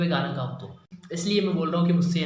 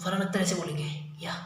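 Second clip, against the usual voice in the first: Farhan Akhtar impression; 5 dB quieter, faster than usual. Shown as a demonstration. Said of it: "Farhan Akhtar तेज़ बोलते हैं".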